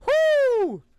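high, loud hyped whoo; hyping up the homie's crude message, excited whoo; hype whoo. Real, not acted. Hyped by crude clip line.

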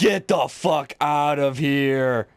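drawn-out, stunned curse; slow, incredulous drawl; slow disbelief. Real, not acted. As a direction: stretch it out in disbelief. Disbelief at tomahawk kill.

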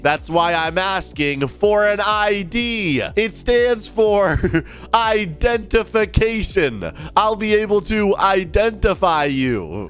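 slow, over-enunciated explanation; pointed explaining. Acted. Bouncer explaining ID to a stubborn guest, slow and pointed. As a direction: spell it out slowly for someone who won't listen.

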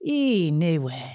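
drawn-out Geordie attempt that sounds Welsh; almost Welsh. Shown as a demonstration. Copying the coach's Geordie word, accent drifting almost Welsh. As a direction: try Geordie, land nearly in Welsh. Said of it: "Almost Welsh".

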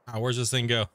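talking while chewing; mouth full. Real, not acted. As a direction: speak around a big bite. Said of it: "Took a big old scoop".

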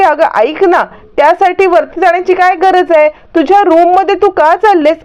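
high-pitched mock yell of alarm; loud shout. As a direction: raise the voice so someone upstairs hears. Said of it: "असं मोठ्या मोठ्याने, मोठ्या मोठ्याने ओरडून".

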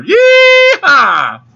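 high, loud yeehaw shout; cowboy yell. Acted. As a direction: whoop it out like a rodeo cowboy. Cowboy sign-off cry.

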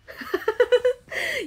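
loud high-pitched laugh; high burst of laughter. Real, not acted. Reacting to a viewer comment.

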